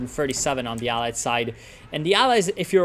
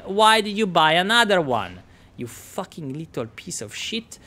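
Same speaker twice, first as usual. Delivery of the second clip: put-on Italian accent; 4 semitones higher than usual. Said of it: "what the fucking accent this is".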